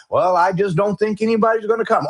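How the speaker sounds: lightly glum, droning mock naysayer; hint of a defeated drone, pitched a bit up; Eeyore. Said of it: "Okay, Eeyore".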